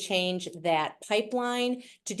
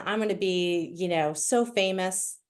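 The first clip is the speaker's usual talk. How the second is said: milk the silence after "so famous" before going on; dramatic pause. Acted. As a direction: let "so famous" hang, then hold a long dramatic pause. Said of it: "that was a dramatic pause".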